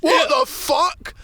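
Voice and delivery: high, drawn-out disbelief; retold outraged shock. Group hears his claim, mock outraged shock. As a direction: imitate a stunned crowd, rising at the end.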